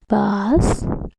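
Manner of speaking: BASKETBALL in three beats, bas - ket - ball; syllable by syllable. Shown as a demonstration. Teacher leading kids to count chin touches, syllable by syllable. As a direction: draw out BASKETBALL with a pause after each syllable. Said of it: "Do it with me".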